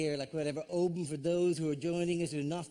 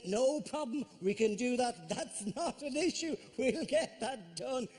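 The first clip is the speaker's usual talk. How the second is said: eager builder; 4 semitones higher than usual. Retold or imitated. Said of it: "eager builder quote again".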